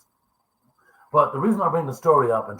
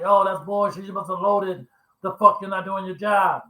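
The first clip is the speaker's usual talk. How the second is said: mock outraged customers, pitched much higher; complaining customers; 9 semitones higher, 4 dB louder than usual. Angry customers protest to the curbside worker, mock high-pitched outrage. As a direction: imitate their indignant protest in a high, raised voice.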